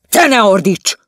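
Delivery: loud high shout. Acted. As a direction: shout her down. The quarrel. (hangos, magas kiáltás)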